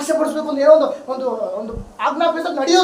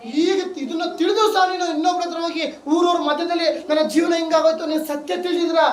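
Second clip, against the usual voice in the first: impassioned, raised-pitch exhortation; fervent preaching; 3 semitones higher than usual. Real, not acted. Preacher challenging believers who complain to neighbours, fervent preaching. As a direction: drive it home to the congregation.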